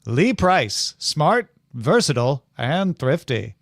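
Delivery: put-on twenties radio guy with mid-Atlantic accent; vintage mid-Atlantic car ad read. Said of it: "somewhere from Oxford accent to Mid-Atlantic".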